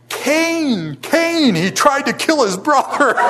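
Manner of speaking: high, loud mock yell of an outraged dad. Dad yelling down the stairs at his sons, mock outraged cry. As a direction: boom it out like a furious father, hammed up. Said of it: "he starts yelling".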